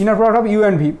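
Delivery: "inner product of U and V" read out plainly in English, word by word; careful English reading. Shown as a demonstration. Teacher showing a student how to read the symbol, clear English reading. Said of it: "এভাবে উচ্চারণ করা হয়".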